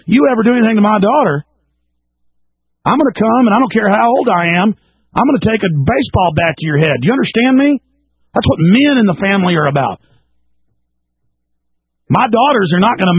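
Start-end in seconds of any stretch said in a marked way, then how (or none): 0.1-7.8 a firm warning, pitched up; threat to son-in-law. Pretend. Father warning daughter's husband, a firm raised threat. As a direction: lay down the law to the young man. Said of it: "I'm gonna tell him point blank".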